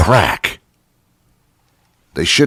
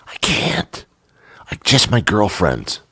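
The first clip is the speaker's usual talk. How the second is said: mock bashful confiding; 2 semitones higher than usual. Date admits she hasn't told doctor, mock bashful. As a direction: squeak it out shyly, hammed up.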